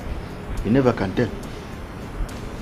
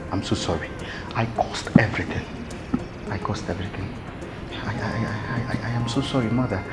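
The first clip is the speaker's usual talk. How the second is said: soft broken apology; tearful apology to mother; remorseful confession; 6 dB quieter than usual. Acted. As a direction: whisper out the guilt.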